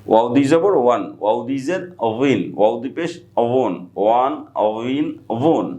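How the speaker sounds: "ওয়িন" and "ওয়ন" with a light v glide, never a full bha; soft v-like wao. Shown as a demonstration. Teacher repeating the wao drill after explaining it, soft v-like wao. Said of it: "বায়ের মতো কিছুটা উচ্চারিত হবে".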